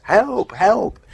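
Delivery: high, loud cry of help at the letterbox; retold shout for help. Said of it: "and he shouts".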